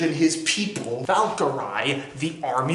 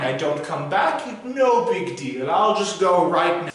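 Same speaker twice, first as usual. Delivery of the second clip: arguing heroes; 3 semitones higher than usual. Acted. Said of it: "the two of them are like".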